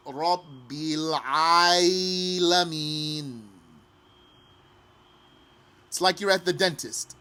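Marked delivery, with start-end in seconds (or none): 0.1-3.4 slow "Rabbil Alameen" with a y-glide slipped in before the stretched "Alameen"; wrong take, added Y. Shown as a demonstration. Teacher modelling what not to say. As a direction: demonstrate the added Y mistake. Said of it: "Don't say".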